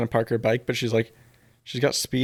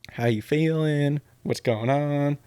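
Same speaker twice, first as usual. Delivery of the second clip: higher, drawn-out nagging questions; mock nagging; 3 semitones higher, slower than usual. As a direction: stretch it out like someone prodding for feelings. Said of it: "keeps nagging at him".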